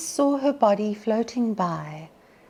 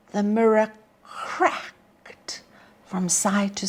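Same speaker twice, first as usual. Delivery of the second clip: slow hushed whisper as the mirror cracks; slow whispered line; dramatic whisper; slower than usual. Acted. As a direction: breathe the words, no voice. Mirror cracks in recited poem.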